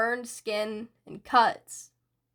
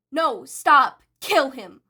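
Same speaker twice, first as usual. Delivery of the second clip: louder, urgent protest; alarmed yell; 3 semitones higher, 6 dB louder, slower than usual. Acted. Villains shouting to stop Shigaraki, alarmed yell. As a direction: cry out to stop him.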